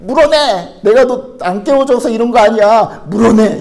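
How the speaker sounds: high, loud insistent shouting; stubborn angry demand. Acted. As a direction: play a stranger who will not listen. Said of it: "막 막무가내로 여러분에게 따지는 거예요".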